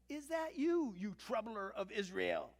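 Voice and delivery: acted accusatory challenge; accusing. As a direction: confront your enemy with a ringing question. Acting Ahab confronting Elijah.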